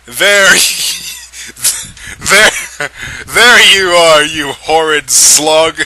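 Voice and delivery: high, loud hammed-up villain; sneering grotesque uncle; creepy Uncle Larry. A narrator's reading. Uncle Larry finding the new vampire, hammed-up sneer.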